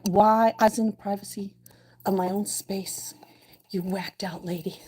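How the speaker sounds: lightly voiced grumpy fish; mock fish voice. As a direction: play the offended fish. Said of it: "He's like".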